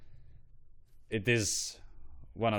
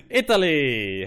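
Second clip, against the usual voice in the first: excited; 5 semitones higher, 8 dB louder, slower than usual. Real, not acted. Excited announcing next flag.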